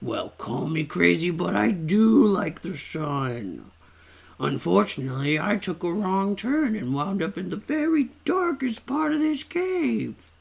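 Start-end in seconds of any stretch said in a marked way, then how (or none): 1.3-10.3 character voice. Acted. Voicing a lost character.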